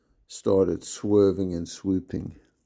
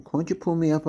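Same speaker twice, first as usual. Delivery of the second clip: begging; 9 semitones higher than usual. A narrator's reading. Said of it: "I begged".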